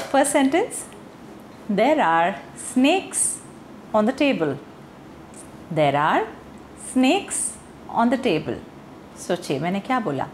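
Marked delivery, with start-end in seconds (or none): 1.7-4.6 "snakes" with a long ay vowel instead of the short a; deliberate wrong vowel in "snakes"; mispronounced snacks as snakes. Shown as a demonstration. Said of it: "मेरा आ sound है उसको ठीक से pronounce नहीं किया". 5.7-8.6 "snakes" with a long ay vowel instead of the short a; deliberate wrong vowel in "snakes"; mispronounced snacks as snakes. Shown as a demonstration. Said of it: "मेरा आ sound है उसको ठीक से प्रोनाउंस नहीं किया".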